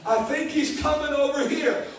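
lightly voiced scheming demon, a touch of laughter; a sneaky demon whispering to its friends, half laughing; demons plotting. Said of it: "And they said".

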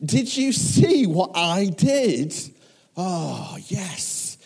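high, loud, triumphant crowing; jubilant boasting. Acted. Believer boasting to John after doing what God asked, jubilant. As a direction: crow over your own success, pitch soaring. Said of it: "it's amazing and you're like".

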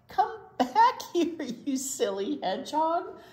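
put-on girl calling after the running hedgehog. A narrator's reading. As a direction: call him back across the yard. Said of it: "she called".

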